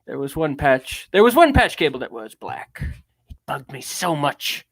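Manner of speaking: grand, measured theatrical oration; lightly pompous affected reading; Orson Welles. Acted. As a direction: lean on key words like a stage great. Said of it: "talks like Orson Welles all the time".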